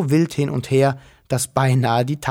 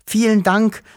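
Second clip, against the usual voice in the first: repeated thanks; 8 semitones higher, 4 dB louder than usual. Acted. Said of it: "wiederholte Wuschel".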